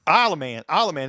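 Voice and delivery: Isle of Man run together in a Texas accent; thick Texas "Isle of Man"; deep Texas accent. Real, not acted. Correcting himself on the race name, deep Texas accent. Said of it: "with a deep Texas accent".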